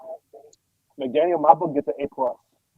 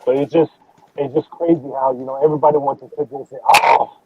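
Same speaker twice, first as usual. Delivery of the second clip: muffled mic; 2 semitones lower than usual. Real, not acted. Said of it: "your mic is very fumbled up".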